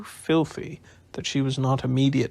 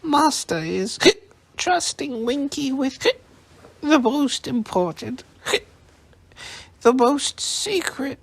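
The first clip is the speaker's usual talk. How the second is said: put-on proud drunk elf; 13 semitones higher, 4 dB louder than usual. A narrator's reading. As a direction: drag it out proudly, tipsy.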